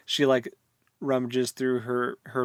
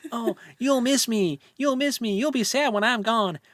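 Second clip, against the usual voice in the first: mock crying; 11 semitones higher, 4 dB louder than usual. Crying character begs him to take her along, mock wailing. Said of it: "exactly how it sounded in the audiobook".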